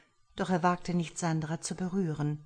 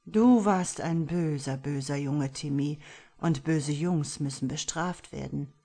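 taunting villain; 3 dB louder than usual. Acted. Killer taunting victim like a child.

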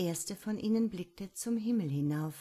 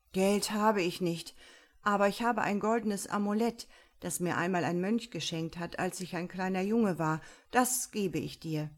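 eager hurried offer; 4 dB louder than usual. Acted. Monk eagerly offers amulet.

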